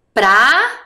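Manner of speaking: Praça split slowly as pra-ça; syllable by syllable. Shown as a demonstration. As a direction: sound out Praça one syllable at a time. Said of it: "Vamos comigo?". (lendo Praça sílaba por sílaba)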